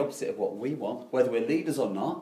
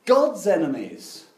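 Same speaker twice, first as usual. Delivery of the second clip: much higher and louder, indignant; outraged disbelief; 10 semitones higher, 7 dB louder than usual. Retold or imitated. Home crowd scolding Jonah, much higher and louder. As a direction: shout it like scandalised friends. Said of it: "And they're going".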